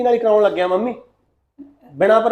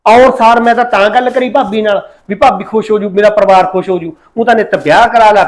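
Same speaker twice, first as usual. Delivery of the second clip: loud, exasperated venting; frustrated outburst; 5 dB louder than usual. Acted. Son in uniform venting at his mother, loud and fed up. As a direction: complain loudly that the whole family hounds you. Son vents at family pressure.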